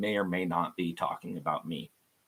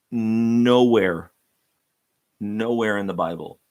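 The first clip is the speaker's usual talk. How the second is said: emphatic shout; 2 semitones higher, 9 dB louder than usual. Real, not acted. Preacher's emphatic declaration.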